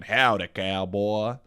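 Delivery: slow Southern cowboy drawl; a hint of a howdy cowboy. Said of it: "less fucking".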